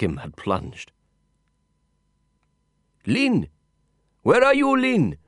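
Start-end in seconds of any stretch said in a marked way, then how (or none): 3.1-5.2 high distant shout, searching; calling out. Acted. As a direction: call out across the dark house. Calling out from afar.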